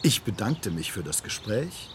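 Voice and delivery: normal talking voice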